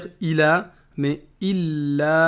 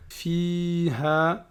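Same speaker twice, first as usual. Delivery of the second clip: slow measured chanting of the verse; Quran recitation; much slower than usual. Acted. Teacher reciting Surah Al-Bayyinah to students, chanted. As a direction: recite each word with care.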